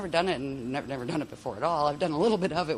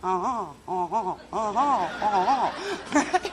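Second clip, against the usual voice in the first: rising, laughing bird-like tones; laughing bird calls; 3 semitones higher, 3 dB louder, much slower than usual. Shown as a demonstration. Teacher mimicking forest birds while laughing. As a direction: chirp it out like tropical birds, giggling. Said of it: "sounded like those birds".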